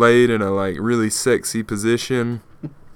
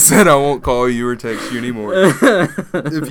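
laughing; 3 dB louder than usual. Real, not acted. Laughing while retelling promise.

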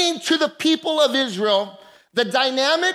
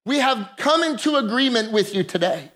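prayer. Acted. Leads congregation in prayer.

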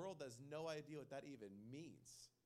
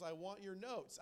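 raised, louder emphatic demand; 3 semitones higher, 6 dB louder, slower than usual. Acted. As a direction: demand it with some force, at normal speed. Playful demand, first take.

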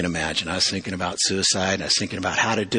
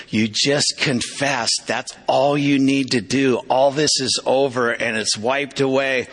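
insistent reassurance; 3 semitones higher than usual. Retold or imitated. Friend insisting all is forgiven.

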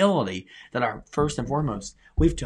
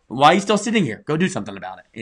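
God urging; 4 semitones higher, 9 dB louder than usual. Retold or imitated. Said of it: "he's gonna go".

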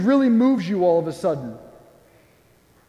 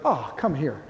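low, soft, mock-melting invitation; tender welcome; 5 semitones lower, 5 dB quieter than usual. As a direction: soften and drop low, drawing someone close. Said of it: "someone be vulnerable with you".

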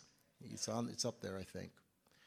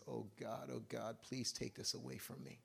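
quiet plea; 10 dB quieter than usual. Retold or imitated. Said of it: "He cries out to Jesus".

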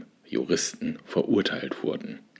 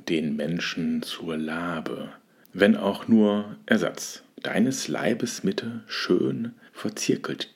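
poem recitation. Acted. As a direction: linger over each phrase as in verse. Reads a sonnet aloud.

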